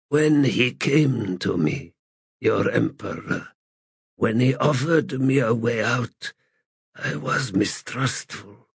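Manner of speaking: lightly voiced, weary, bitter god; a hint of a broken ancient god; frail god voice. Crippled god continues.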